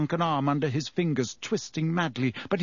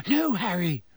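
petrified whisper; 4 semitones higher than usual. A narrator's reading. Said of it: "Hermione gasped in a petrified whisper".

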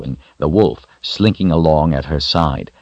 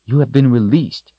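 higher, sharp scolding; 8 semitones higher, 3 dB louder than usual. A narrator's reading. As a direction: scold the wolf firmly. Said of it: "she scolded".

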